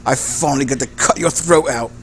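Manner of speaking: lightly voiced villain, slow and deliberate; menacing gang boss. Gang boss greeting his old enemy, menacing. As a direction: relish the threat, in no hurry.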